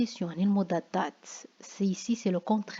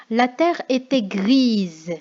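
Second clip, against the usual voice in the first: slow, louder reading of "La terre était grise", "terre" stressed; example read aloud; 6 dB louder, slower than usual. Shown as a demonstration. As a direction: read the example line slowly and firmly. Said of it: "On a exemple". (lecture lente et appuyée d'un exemple)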